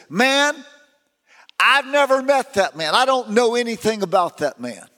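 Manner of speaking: a touch of indignant denial. Retold or imitated. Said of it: "that's what he said".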